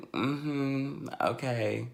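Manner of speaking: soft, half-asleep acknowledgement; sleepy mother. Retold or imitated. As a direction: imitate a mom barely awake. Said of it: "So she sleep and she like".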